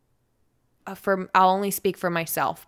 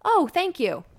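higher-pitched imagined grateful reply; mock-pleased, pitched up; pleased thanks; 9 semitones higher than usual. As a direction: lightly act out being pleasantly flattered. Imagined reply to polite compliment.

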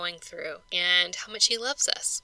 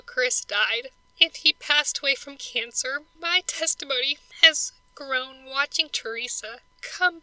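higher voice fighting back tears, breaking to a whisper; teary; 4 semitones higher than usual. Real, not acted. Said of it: "sorry that I'm getting teary".

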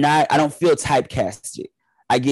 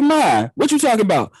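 high, disbelieving ask; incredulous; 9 semitones higher than usual. Retold or imitated. Son asking his mom, high and incredulous. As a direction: push it up in disbelief. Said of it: "And then I was like".

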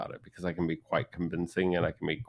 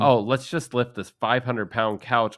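exaggerated cartoon intonation; 3 semitones higher, 5 dB louder than usual. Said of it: "people tell me".

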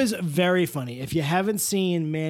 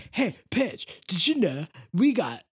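Mister Oleander. Pretend. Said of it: "talk like Matty O".

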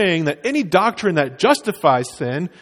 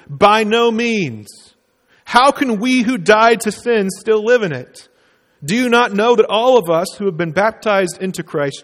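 scripture reading. Acted. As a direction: read the verses aloud with weight. Reads the scripture passage.

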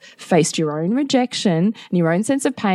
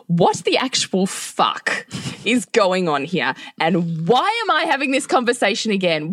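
angry outburst; 4 semitones higher than usual. Retold or imitated. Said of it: "I pretty much started with".

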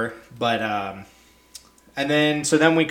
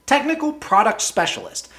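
higher, mocking repeat of the title; 8 semitones higher than usual. Real, not acted. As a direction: toss the title back in disbelief.

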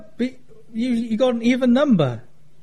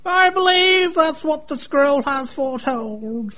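mock prophecy; 5 semitones higher, slower than usual.

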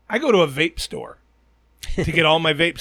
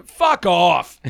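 retold angry outburst; 3 semitones higher, 3 dB louder than usual. Retells his angry comeback.

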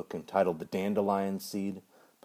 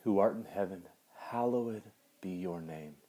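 prayer. Acted. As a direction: pray it aloud to the congregation. Leads the Lord's Prayer.

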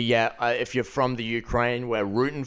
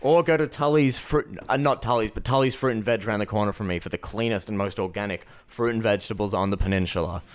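ad read; 3 semitones lower than usual. Acted. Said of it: "I love that advertising".

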